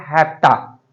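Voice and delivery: हैप्टा said as one fast word, "hafta"; हैप्टा, have to squeezed into two syllables; contracted have to. Shown as a demonstration. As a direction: run have to together as हैप्टा. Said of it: "shortcut में बोलते हैं हैप्टा".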